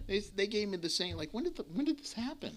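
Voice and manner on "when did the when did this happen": laughing mock doctor. Mocking the doctor's question again.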